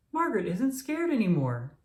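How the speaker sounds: pleased and proud of his sister; happily. A narrator's reading. Daniel tells Mom his sister is no longer scared, happy. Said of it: "said Daniel happily".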